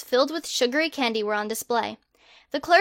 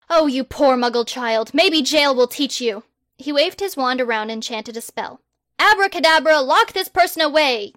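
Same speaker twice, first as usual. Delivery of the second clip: loud, grand, self-important; pompous boy wizard; 4 dB louder than usual. Acted. Harry the Great loftily turning down a survey, loud and pompous. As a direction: proclaim yourself like a hero.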